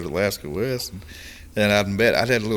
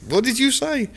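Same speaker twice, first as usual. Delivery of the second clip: much higher-pitched puzzled question; imitating baffled listeners; 3 dB louder than usual. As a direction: act out someone who can't make out the words. Imitates guys baffled by his accent.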